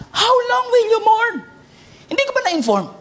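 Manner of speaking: voice of God. Acted. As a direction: call out as God rebuking Samuel. Quoting God to Samuel.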